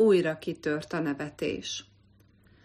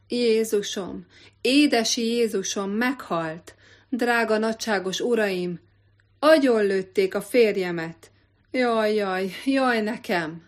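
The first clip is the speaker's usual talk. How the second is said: hammed-up wailing; 3 semitones higher, 4 dB louder than usual. Wife fakes grief for hunters.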